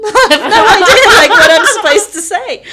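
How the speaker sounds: high, words through laughter; laughing. Real, not acted. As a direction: crack up telling it. Reliving panic, laughing.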